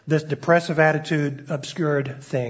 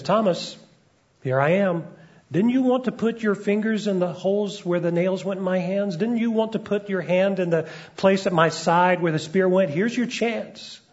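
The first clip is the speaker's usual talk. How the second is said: amused gentle Jesus; 3 semitones higher than usual. Retold or imitated. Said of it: "the ghost of a smile playing around his lips".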